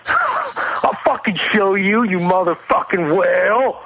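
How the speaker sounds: mock Japanese accent, drifting German; slow hammed-up Japanese accent. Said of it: "I think I was trying to do a Japanese accent".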